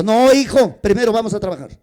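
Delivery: voice of command. Retold or imitated. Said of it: "Voz de mando".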